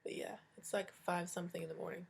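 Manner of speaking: whispering. Real, not acted. Early morning, quiet aside.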